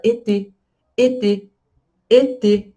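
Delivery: été with two clear closed é sounds; French été. Shown as a demonstration. Teacher models été, the French word for summer. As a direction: say été, both vowels closed. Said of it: "a palavra verão em francês".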